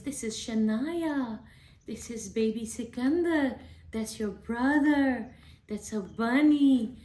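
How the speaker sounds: put-on slow, drawn-out baby talk; name each picture slowly for a little one; mother showing her daughter the family in a picture book in baby voice. Shown as a demonstration. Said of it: "talk to your babies in baby voice".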